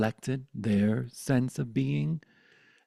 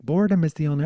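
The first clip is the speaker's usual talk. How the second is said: loud, higher grandma retort; grandmother's pronouncement; 5 semitones higher, 9 dB louder, much faster than usual. Retold or imitated. Grandmother answering bored child, emphatic. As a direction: insist on it, raised voice. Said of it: "She's like".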